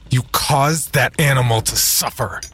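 high-pitched, indignant squeak; high angry squeak. Acted. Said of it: "squeaked in his high, angry voice".

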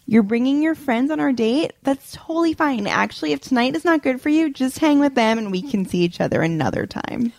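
high mock-breezy acceptance; passive-aggressive. Date hearing friends are coming, high falsely breezy passive aggression. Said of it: "all right, next".

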